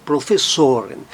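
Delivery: "Professoren" with the weight on SO; stress on SO. Shown as a demonstration. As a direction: lean on so in "Professoren". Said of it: "mas tônico no plural".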